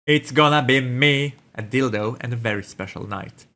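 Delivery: drawn-out sultry delivery; slow seductive read. Shown as a demonstration. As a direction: savor each word. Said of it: "Yeah, sure, why not?".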